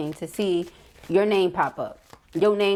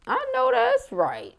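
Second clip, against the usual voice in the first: 1 sassy approval; slower than usual. Real, not acted. High affirming exclamation.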